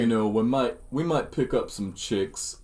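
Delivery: slow, lightly voiced punch-drunk boxer; Rocky Balboa impression. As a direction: drag the words like a dazed fighter. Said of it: "sound exactly like Rocky Balboa".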